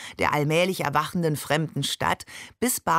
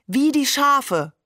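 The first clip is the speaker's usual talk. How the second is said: drawn-out, high, louder exclamation; giggling call; 8 semitones higher, 5 dB louder, slower than usual. A narrator's reading. Hamed chimes in about the sheep, giggling call. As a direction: call it out high and slow, amused. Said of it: "rief Hamed heiser kichernd".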